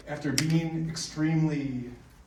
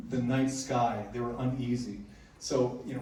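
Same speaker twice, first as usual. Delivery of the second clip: ordinary delivery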